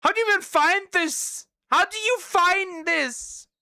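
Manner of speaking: high, loud baffled question; high shocked how do you find this; incredulous. Real, not acted. Incredulous reaction.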